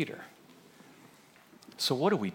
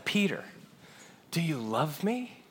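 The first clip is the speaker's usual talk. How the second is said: gentle repeated question; 9 dB quieter than usual. Acted. Jesus asking Peter a second time, gently. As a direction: ask softly and draw out the last words.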